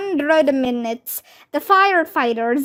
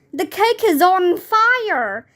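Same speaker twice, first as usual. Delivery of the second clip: higher alarmed shout; 5 semitones higher than usual. Acted. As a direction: call out in alarm. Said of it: "somebody shouted".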